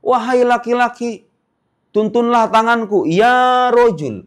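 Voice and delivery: teacher voicing a blind man asking for help; pleading blind man. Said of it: "Orang buta kemudian bilang".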